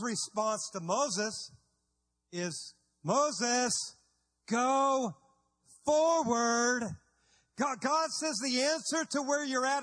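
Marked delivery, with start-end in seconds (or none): 3.0-6.8 loud, slow, higher command with pauses; commanding God. Acted. God ordering Moses forward, loud and commanding. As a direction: thunder the order from above.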